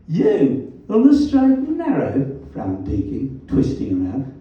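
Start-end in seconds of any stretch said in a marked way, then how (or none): 0.1-2.4 put-on Black Country accent. A narrator's reading. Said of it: "His black country accent was as vowelish as ever".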